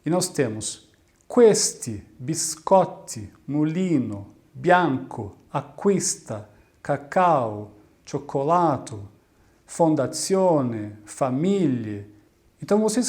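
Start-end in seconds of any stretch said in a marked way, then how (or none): 1.3-12.0 questi, biscotti, mulino, bianco, acquista, cacao, cioccolato, fondazione, famiglie, one by one with the next-to-last syllable stretched; word-by-word list from questi to famiglie, leaning on each penultimate syllable; penultimate-syllable stress. Shown as a demonstration. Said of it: "todas as outras são paroxítonas".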